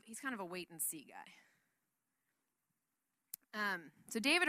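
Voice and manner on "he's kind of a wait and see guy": drops to a whisper for the joke; whispered aside. Real, not acted. Preacher whispers a joke about Saul. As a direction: lets the jab slip out in a whisper.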